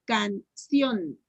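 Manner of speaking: "Canción" in two parts, CIÓN stressed; syllable-by-syllable. Shown as a demonstration. Teacher asking where the accent goes, "Canción" split with CIÓN stressed. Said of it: "la pronuncien por sílabas despacito".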